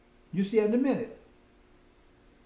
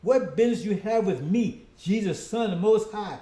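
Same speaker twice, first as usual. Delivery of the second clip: shouting; 3 semitones higher, 5 dB louder than usual. Acted. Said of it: "shouting with a loud voice".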